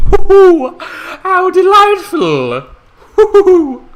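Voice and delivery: high, loud, slow hoo-hoo of a gloating villain; gleeful villain cackle. Acted. Narrator gloating over his boozy scheme, high cackling villain voice. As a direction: crow with wicked delight, drawn out.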